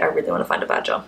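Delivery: breathy little whisper to herself; whispered wish. Real, not acted. Wistful aside to herself.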